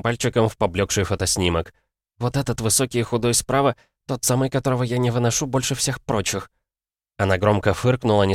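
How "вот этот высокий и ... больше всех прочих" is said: put-on disgusted girl voice. Annie's disgust continues.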